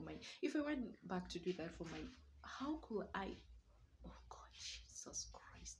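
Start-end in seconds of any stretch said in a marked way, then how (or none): 4.1-5.8 quiet. Real, not acted. Overwhelmed by the accusations.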